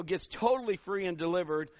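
ordinary talk, nothing marked

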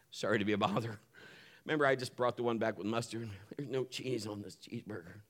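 soft, apologetic whisper; whispered apology. Retold or imitated. Pastor apologizing to the drive-through worker, whispered. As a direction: whisper it like you hate to bother them.

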